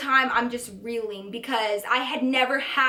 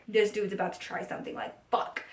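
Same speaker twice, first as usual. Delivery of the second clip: hushed, breathy inner panic whisper; whispered dread; 4 semitones lower, 8 dB quieter than usual. Retold or imitated. Thinking about her date leaning in, whispered dread. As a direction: whisper it like a secret alarm.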